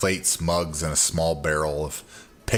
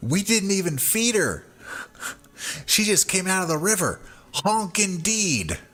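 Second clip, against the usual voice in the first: tiny, very high little voice. Game narrator voicing an unseen figure right after a large honk, small voice. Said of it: "a small voice that says".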